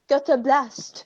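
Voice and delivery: slow, mock French accent. Shown as a demonstration. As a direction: draw out the French vowels playfully. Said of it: "it's gotta be in a French accent".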